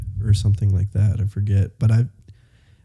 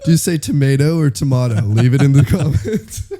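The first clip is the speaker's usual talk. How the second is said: laughing; 4 semitones higher than usual. Real, not acted. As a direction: keep laughing as you speak. Repeats joke while laughing.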